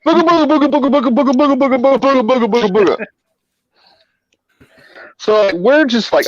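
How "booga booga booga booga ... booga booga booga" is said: jabber it in a high silly shriek; booga booga gibberish. Retold or imitated. Friend mocking the cop, high wild booga booga. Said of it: "starts going".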